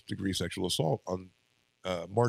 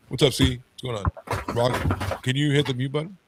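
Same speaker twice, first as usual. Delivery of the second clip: raised, higher call to a co-host; 5 semitones higher, 6 dB louder than usual. Real, not acted. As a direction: call over to someone on the line. Calls out to co-host about muting.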